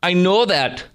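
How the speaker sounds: high, slow mocking parody; mocking Harris. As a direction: drag the words out high to ridicule her. Host parodies Harris clip.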